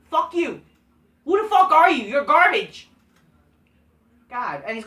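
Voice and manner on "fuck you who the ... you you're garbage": angry insult. Real, not acted. Insulting commentator.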